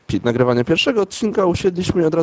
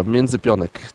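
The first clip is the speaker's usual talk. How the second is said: ordinary talk, nothing marked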